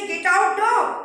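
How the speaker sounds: mock shout. Convict quoting what everybody else tells him, mock shout. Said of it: "don't say".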